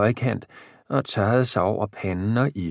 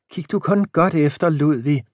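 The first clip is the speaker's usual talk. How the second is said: put-on higher, kindly old wife offering her cup; an elderly wife, willing and gentle; a lightly voiced old housewife; old wife Jane; 7 semitones higher, 4 dB louder than usual. A narrator's reading. Jane voice encouraging.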